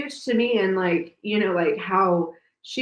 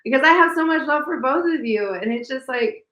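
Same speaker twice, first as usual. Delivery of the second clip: fighting back tears while praising them; tearing up; 8 semitones higher than usual. Real, not acted. Mother figure moved by father and daughter, tearful. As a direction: voice rising high as tears come. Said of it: "don't cry now".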